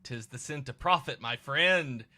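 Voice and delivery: lilting Cockney trader; put-on Cockney accent. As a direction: sell it like a Cockney merchant. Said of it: "I'm not gonna do my accent again".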